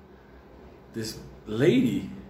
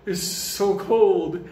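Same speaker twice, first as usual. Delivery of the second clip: slow mock moaning; 5 semitones higher, 3 dB louder, much slower than usual. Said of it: "He's like".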